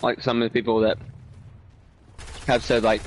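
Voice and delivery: talking while chewing candy; words round a mouthful; chewing noisily. Real, not acted. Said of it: "Sorry, I'm eating something, so it sounds weird".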